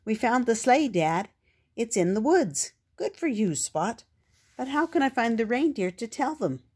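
a hint of an excited youngster; young puppy voice. Spot's voice in the story.

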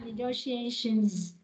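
"negotiations" closed on an audible Z; final Z. Shown as a demonstration. Teacher models the word after student's attempt, final Z. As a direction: finish "negotiations" with the Z sounded. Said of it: "giờ cuối nữa nha".

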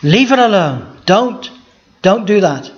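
a gentle but firm Jesus telling Judas to stop; firm rebuke. Shown as a demonstration. Preacher voicing Jesus scolding Judas, firm mild rebuke. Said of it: "I think he said it in that tone".

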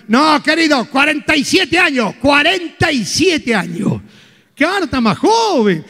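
proud, drawn-out boast of the age; slow, swaggering brag about looking young; smug boast. Acted. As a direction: savour each word like a compliment. Vain man boasting his age.

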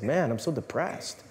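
slow, soft, mock-gloomy sigh of a line; mock depressed. Mocking a gloomy homily.

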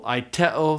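Aiteo stressed on the middle syllable te; stress accent. Shown as a demonstration. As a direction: punch the te in Aiteo, no pitch play. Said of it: "I just use stress".

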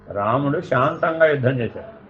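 low, softened, calm telling; illustrating calm. Shown as a demonstration. Teacher contrasting Rama's calm battle with Ravana's, calmly.

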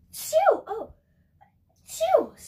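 high sharp shouts to shoo away; real shoo. Real, not acted. Teacher shooing a pest away, loud high shout. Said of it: "shooing something away".

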